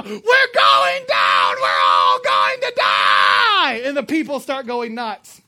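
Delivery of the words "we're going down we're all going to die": drawn-out terrified scream, very loud; panicked yell. Retold or imitated. Stewardess screaming to passengers as the plane turns, terrified yell. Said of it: "she starts to yell".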